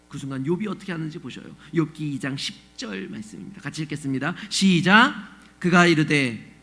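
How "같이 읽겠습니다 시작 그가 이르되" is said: ordinary talk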